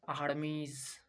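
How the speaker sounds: आर्मीज ending on a z sound; voiced S demo. Shown as a demonstration. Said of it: "जौ का sound आता है".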